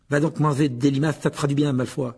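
fairly restrained angry comeback; furious. Acted. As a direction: throw the insult with some anger. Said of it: "dit Ron d'un ton furieux". (riposte fâchée, assez contenue)

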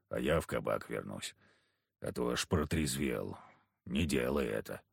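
low, gruff backwoods hunter. Acted. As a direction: speak it low and heavy like a surly hunter. Kharisim voiced low, gruff.

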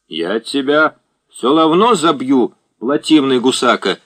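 мальчик картавит и упрямо выкрикивает; детский крик, картавя «р». A narrator's reading. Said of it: "забавно картавя и посапывая носом, упрямо выкрикивал". (картаво и упрямо выкрикивать)

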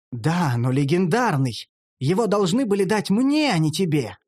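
mildly jealous grievance; indignant protest. Acted. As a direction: protest as if cheated. Envious protest over the quest.

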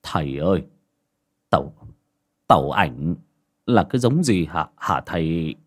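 low, halting stammer. Acted. Frightened clan elder stammering a question to the master. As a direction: trip over the words in fright. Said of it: "lắp bắp".

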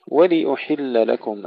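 ولأحل with a full i on L then u on hamza; clear vowels. Shown as a demonstration. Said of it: "تحقيق كسر اللام ثم ضم الهمزة". (تحقيق الحركات)

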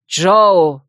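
loud, drawn-out cry of the name; alarmed call. A narrator's reading. Odan rushes to the girl, loud alarmed call. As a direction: shout her name in warning.

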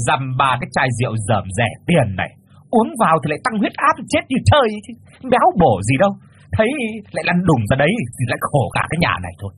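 high mocking mother's voice; sarcastic. Mother mocks suitor's cheap liquor, high sarcastic sneer. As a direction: scorn the cheap bottle. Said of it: "mỉa mai".

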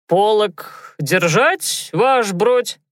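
put-on hiccuping drunk soldier. A narrator's reading. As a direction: hiccup through the question. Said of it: "икнул Фёдор".

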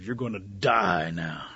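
drawn-out menace on "die"; slow threat. Acted. Gator turns on rabbit after the whack, slow threat. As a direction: stretch the threat out slowly.

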